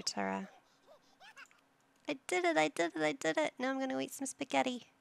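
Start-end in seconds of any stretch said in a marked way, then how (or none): 2.1-4.9 put-on high, loud little-kid cheer; proud child voice. Toddler sim cheering after potty training, high and loud.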